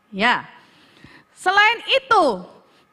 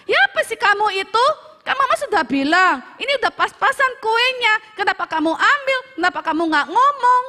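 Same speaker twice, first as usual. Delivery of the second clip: fast, higher scolding mother's voice; mock angry mom; 5 semitones higher, faster than usual. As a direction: act out a mom scolding her kid over the cake, lightly. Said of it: "otomatis mama marah lah".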